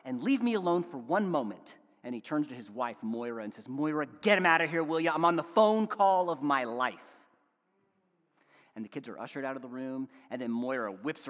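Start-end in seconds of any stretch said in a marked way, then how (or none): 0.0-1.8 snapping. Acted. Stressed father on a work call to his loud kids, snapping. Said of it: "until finally Peter snaps". 3.7-7.2 acted exasperation, pressing the words; exasperated snap. Father on an important call to his wife, exasperated. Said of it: "until finally Peter snaps".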